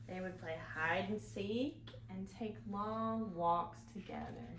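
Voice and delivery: gentle storybook reading. A narrator's reading. Reads picture book aloud.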